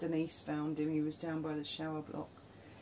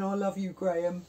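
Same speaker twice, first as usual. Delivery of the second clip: put-on drunken gushing; 5 dB louder than usual. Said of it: "Pissed as a fart".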